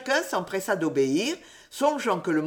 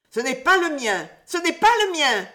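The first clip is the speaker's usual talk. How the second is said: high, loud chorus of denials, rising; all the schoolboys answer at once, loud; pupils crying out; 8 semitones higher, 5 dB louder than usual. A narrator's reading. A high, loud burst of protest. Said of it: "de toutes les bouches à la fois".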